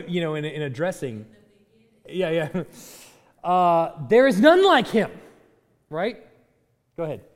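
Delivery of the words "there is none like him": emphatic quote. Shown as a demonstration. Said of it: "quoting scripture emphatically".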